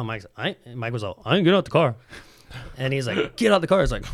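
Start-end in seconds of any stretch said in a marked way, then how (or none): 1.3-2.0 retold defiant refusal. Retold stubborn refusal to security. 3.4-3.8 raised, louder mock angry order; retold furious command, punched out; losing it. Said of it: "he just lost his shit on Mike".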